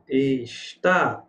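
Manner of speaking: Está with a lengthened "tá"; Está sounded out, holding the stressed "tá"; stress on the final syllable. Shown as a demonstration. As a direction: lean on the end of Está. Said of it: "oxítona".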